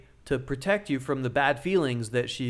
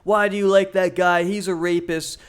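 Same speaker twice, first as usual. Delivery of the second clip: higher and louder imitated accusation; mock accusing girlfriend; 4 semitones higher, 5 dB louder than usual. Girlfriend sees an Andrew Tate video on his phone, accusing. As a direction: throw the question at him like an accusation.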